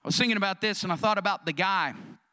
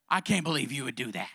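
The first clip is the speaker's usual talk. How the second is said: low, deflated mock disbelief; mock hurt disbelief; 8 semitones lower, 4 dB quieter than usual. Husband reproaches wife for remarrying, mock hurt disbelief. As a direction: drop the pitch, playing the wounded husband.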